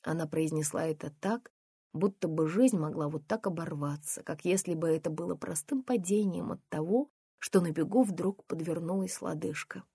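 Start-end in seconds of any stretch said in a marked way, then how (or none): none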